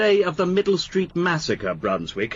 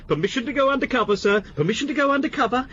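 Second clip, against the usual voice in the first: fast, higher mimicking of an eager subordinate; mocking imitation; 6 semitones higher, faster than usual. Superior mocking his officer's usual request, fast and higher. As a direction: parrot him mockingly. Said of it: "It's your answer to everything".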